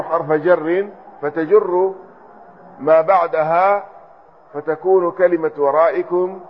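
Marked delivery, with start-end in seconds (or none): 5.6-6.4 "ورائكم" said waraa'ikum; an i after the hamza in "ورائكم"; hamza with kasra. Shown as a demonstration. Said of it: "على همزة". ("ورائكم" بكسر الهمزة)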